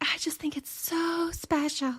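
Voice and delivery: very high, sweet voice. Mocking a TV cast member's sugary way of talking: imitating Christine's Keep Sweet voice. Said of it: "Keep Sweet voice where she's like".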